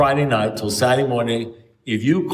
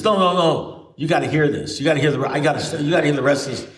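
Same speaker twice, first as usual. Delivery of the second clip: higher-pitched, repetitive insistence; insistent caller; 4 semitones higher than usual. Retold or imitated. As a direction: refuse to be interrupted. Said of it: "you interrupt for a second".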